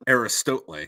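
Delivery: Aristotle with a long "STOTE" in it; joke mispronunciation. Shown as a demonstration. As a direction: say Aristotle as "air-ih-STOTE-lay". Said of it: "Or is it".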